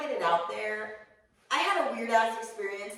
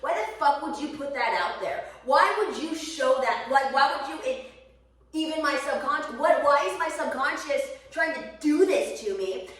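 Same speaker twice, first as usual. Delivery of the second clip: exasperated rant; 4 semitones higher, 5 dB louder than usual. Retold or imitated. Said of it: "I get so pissed off at my brain".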